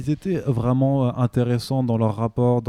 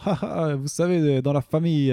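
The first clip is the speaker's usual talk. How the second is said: put-on Italian accent; 4 semitones higher than usual. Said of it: "je vais le faire avec l'accent italien".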